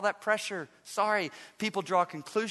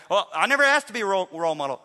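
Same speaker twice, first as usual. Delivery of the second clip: whiny athlete excuse; 3 semitones higher, 10 dB louder, faster than usual. Retold or imitated. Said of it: "like some of our athletes and coaches today".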